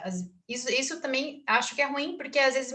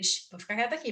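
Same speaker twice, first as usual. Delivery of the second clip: hushing herself; 5 dB quieter, faster than usual. Retold or imitated.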